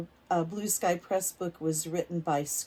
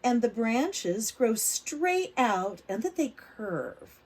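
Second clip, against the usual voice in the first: put-on reading to children; slower than usual. A narrator's reading. Teacher reading a picture book aloud to kids. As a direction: lively, clear storybook reading for little ones.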